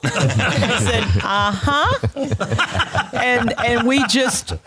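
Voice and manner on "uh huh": answering through a fixed grin; through gritted teeth. Retold or imitated. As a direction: keep the teeth shut and hum it. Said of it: "talk through your teeth as you're smiling".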